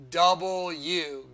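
"double U" slowly with a falling close. Shown as a demonstration. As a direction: land "double U" slowly and firmly. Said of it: "that's why they make that".

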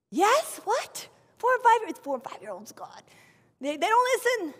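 high, loud mock disbelief; incredulous dismay. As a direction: squeal it like you can't believe the assignment. Retold dismay at teaching toddlers.

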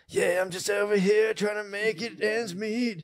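mock humble worker. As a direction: play up the humble working guy. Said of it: "being like".

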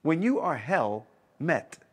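"hell met" as two separate stressed words, pause between; punning emphasis. Real, not acted. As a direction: say it slowly, setting "hell" apart from "met". Repeats the pun, splitting the word.

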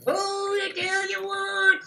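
put-on hillbilly accent. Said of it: "in that accent".

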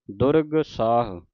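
ਦੁਰਗ with its final g fully sounded; full durg. Shown as a demonstration. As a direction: sound the g of ਦੁਰਗ clearly before ਸਾਹ. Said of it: "ਦੁਰਗ ਪੂਰਾ ਬੋਲ ਕੇ ਗੱਗਾ". (ਗੱਗਾ ਪੂਰਾ ਬੋਲ ਕੇ ਦੁਰਗ)

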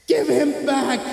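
high, eerie hag demand; shrill witch voice. Acted. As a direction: shriek it like a ghoul. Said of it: "the woman's shrill voice".

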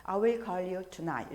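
slow clear "I will call you"; slow promise example. Shown as a demonstration. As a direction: say it slowly for learners. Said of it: "이렇게 말씀하실 때".

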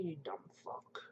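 whispered aside; whispered insult. Real, not acted. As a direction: whisper it under your breath. Insult muttered at commenter.

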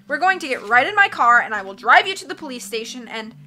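lightly voiced fussy banker. Narrator voicing Mister Poe.

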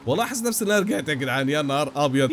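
ordinary talk, nothing marked

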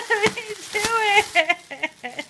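high, slow and laughing; slow laughing plea. Real, not acted. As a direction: drag it out through laughter.

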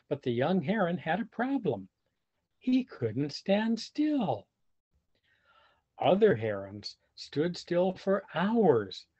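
put-on lively read-aloud for children; animated storybook reading; story narration. A narrator's reading. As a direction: tell it like a picture book to kids. Reading picture book aloud.

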